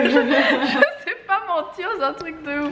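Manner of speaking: giggling through the words, slow; laughing at herself after a failed lie. Real, not acted. Laughing while confessing she can't lie.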